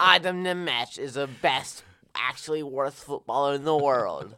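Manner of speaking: put-on slow, loud Slovak-accented voice; lightly put-on Slovak accent. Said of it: "my Slovakian accent".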